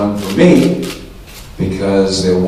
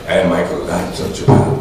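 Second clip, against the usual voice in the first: mock Japanese guy; 2 semitones lower than usual. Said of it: "He's like".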